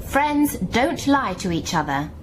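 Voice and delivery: slow, each word spelled out, landing on "lie"; repeated for emphasis. Acted. Kate scolding Edna over the brooch, slow and emphatic. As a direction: drive "Friends don't lie" home slowly. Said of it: "I'm going to repeat myself for emphasis".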